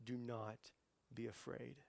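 soft, measured comfort; hushed calming words; quiet reassurance. Acted. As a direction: say it gently, with a pause. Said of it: "all the scripture that says".

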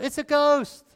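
high frightened cry of ghost; the disciples on the boat cry out in terror; cried out in fear. Retold or imitated. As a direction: shriek it like a scared disciple. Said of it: "they cried out".

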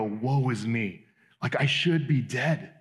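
slow, hushed mock dread; trembling awe before holiness, slowed; awed dread. Someone in a holy God's presence, understated dread. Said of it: "they go".

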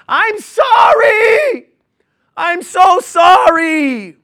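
high, slow, anguished scream; screaming apology. Acted. The man screams to heaven under her shame, anguished scream. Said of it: "he screams".

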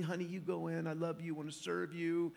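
soft, loving send-off to wife; softly sweet to your wife; husband sending wife in from the rain; tender to wife. Retold or imitated. Tender words to wife at door.

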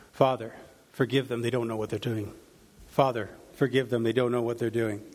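low, subdued repeated plea; repeated prayer. Retold or imitated. Jesus praying as the leaders mock him, low repeated prayer. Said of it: "he was praying this over and over".

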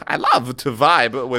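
lightly done celebrity impression with odd stresses; halting phrasing, punctuated by an "ow"; Christopher Walken. Friends riffing on the word vibing, light celebrity impression. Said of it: "That's all my Christopher Walken".

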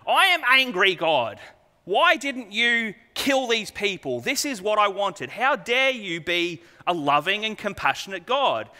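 put-on stamp your foot like a sulking child; Jonah's tantrum. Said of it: "child tantrum at this point".

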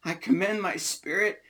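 mildly loud, high scriptural cry; crying out, restrained. Acted. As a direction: lift the voice as if calling to a father. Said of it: "cried with a loud voice".

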